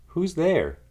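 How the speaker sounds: high, loud startled squeak; a tiny mouse calling out in alarm; mouse cries out. A narrator's reading. Mouse hears something in the dark, crying out high and loud. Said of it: "Mouse cries".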